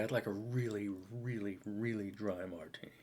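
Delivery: hushed, conspiratorial whisper; whispered order. Pretend.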